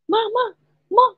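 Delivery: high-pitched call to mum; calling for mama. Retold or imitated. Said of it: "saya panggil mama saya". (memanggil mama dengan nada tinggi)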